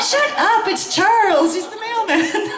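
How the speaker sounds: high, giggling dismissal; cracking up while telling him off; laughing retort. Retold or imitated. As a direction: laugh it off at the fiance. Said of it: "I'm like".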